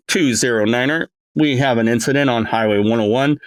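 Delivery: clipped police dispatch call, read like over the radio; cop radio cadence. Shown as a demonstration. Voice director mimicking a cop on the radio, dispatch cadence. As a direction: rattle off the call sign like a patrol cop. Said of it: "the cadence that cops talk".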